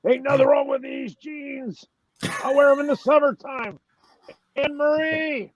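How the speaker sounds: defensive redneck shout; gruff hillbilly grumble. Retold or imitated. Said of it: "doing the Hillbilly voice".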